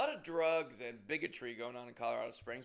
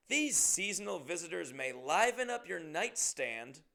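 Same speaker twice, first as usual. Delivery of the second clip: higher, slow, sugary announcement; mock hotel sign voice; 3 semitones higher, 5 dB louder, slower than usual. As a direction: read it like a too-cheerful notice. Reads hotel moth sign mockingly.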